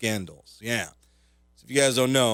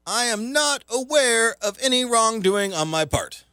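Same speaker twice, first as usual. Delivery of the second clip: mock CEO statement, pitched way up; mock denial; 11 semitones higher, 3 dB louder than usual. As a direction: recite it as a hammed-up official denial. Mock reading of CEO's denial.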